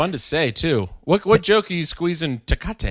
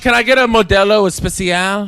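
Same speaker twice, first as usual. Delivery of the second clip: put-on showy Spanish accent; 4 semitones higher, 4 dB louder than usual. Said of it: "you're not like".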